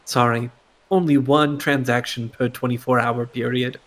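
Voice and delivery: recorded message voice; flat automated system message. Acted. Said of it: "an automated voice play in your mind".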